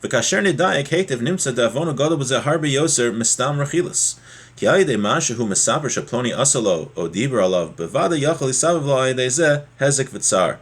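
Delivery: fast, even reading of the Hebrew source; rapid text recitation. Acted. Teacher reading the source text to his class, rapid recitation. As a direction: rattle off the quoted passage quickly.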